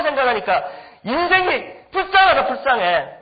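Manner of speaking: retold scolding. Pastor dressing down misbehaving students at a retreat, retold scolding. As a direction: lay into them, re-enacting the scolding. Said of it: "막 다 죽여놨어요".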